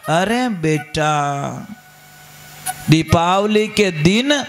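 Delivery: slow, tender reassurance to a crying daughter; soothing mother. Retold or imitated. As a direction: gently comfort her, drawing the words out slowly. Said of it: "माँ बोली".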